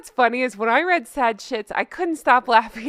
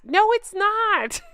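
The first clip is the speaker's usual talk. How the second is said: emphatic no; 8 semitones higher, slower than usual. Real, not acted. Rebutting commenter.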